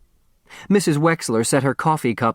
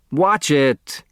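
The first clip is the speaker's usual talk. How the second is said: sharp warning; 4 semitones higher than usual. Acted. Doctor's patient jerks.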